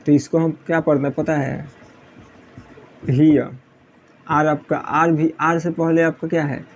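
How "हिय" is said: हियर as "hee-uh", R dropped; silent final R. Shown as a demonstration. Teacher reading out HERE for students, silent R. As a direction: say हियर with a vowel at the end instead of R. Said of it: "आर भी silent होता है".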